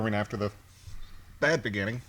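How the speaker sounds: talking through hiccups; hiccupping between words. Real, not acted. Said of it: "Sorry, I have the hiccups".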